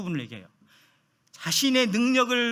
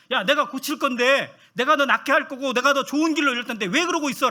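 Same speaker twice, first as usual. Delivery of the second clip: hammed-up scolding voice, raised and deliberate; mock rebuke; 4 semitones higher, 4 dB louder than usual. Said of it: "라고 책망하시는 분이 아니세요".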